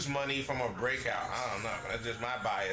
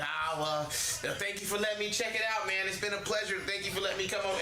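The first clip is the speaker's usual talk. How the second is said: higher, overly polite farewell; mock polite goodbye; 5 semitones higher than usual. Mocking pickers thanking the seller as they leave, higher sugary voice. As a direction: play the picker bowing out sweetly.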